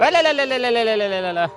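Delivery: very high coaxing call fading down; calling the calf. Real, not acted. Woman coaxing her calf closer, high call sinking. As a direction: start high and bright, let the call sink.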